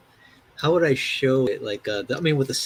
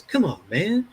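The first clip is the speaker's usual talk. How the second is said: mildly hurt retold plea, pitched up; 4 semitones higher, slower than usual. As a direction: imitate someone a little wounded. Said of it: "Like, he's hurt".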